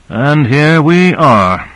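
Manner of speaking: slow, sighing line let out with a breath; sighing audibly. A narrator's reading. Owens to the crew at full miniaturization, sighing slowly. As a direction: sigh the words out, weary. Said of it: "sighing audibly".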